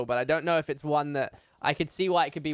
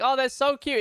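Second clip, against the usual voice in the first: mocking high voice; 9 semitones higher than usual. Mocking tarantula owners.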